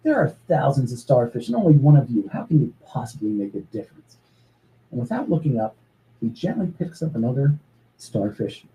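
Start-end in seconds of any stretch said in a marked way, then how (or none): 0.0-4.2 put-on talking down to the boy, dismissive; old man scoffing at the boy on the beach. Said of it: "scoffs and says".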